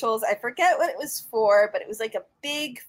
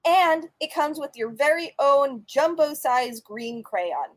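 put-on old radio announcer; 2 semitones higher than usual. Reads a mock sponsor ad.

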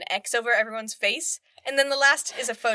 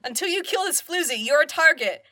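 a hint of a higher, louder nagging mum; mock scolding mother; 4 semitones higher, 5 dB louder than usual. The mum scolds Bill Nye for not killing her, nagging. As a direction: nag him like a disappointed mother. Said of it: "she's like".

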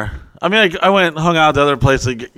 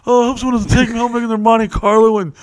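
put-on drunk party girl; 10 semitones higher than usual. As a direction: play the coy drunk girl. Playing drunk bait at club.

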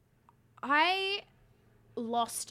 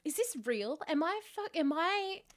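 panicked inner voice; 6 semitones higher than usual. Retold or imitated. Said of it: "I was thinking to myself".

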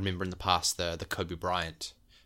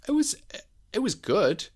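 unconvinced; 13 semitones higher, 6 dB louder than usual. Real, not acted. Lukewarm verdict on documentary.

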